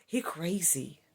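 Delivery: whispered mock gossip, voice dropped to a breath; gossipy whisper. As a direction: hiss it like spreading a rumour. Quoting people gossiping behind back.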